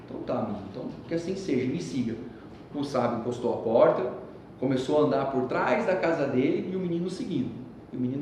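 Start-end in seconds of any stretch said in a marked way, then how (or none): 0.1-2.1 put-on softer, lower old man's reply; a quiet, knowing invitation; a hint of a calm old master; calm sage. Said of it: "sage answers the boy".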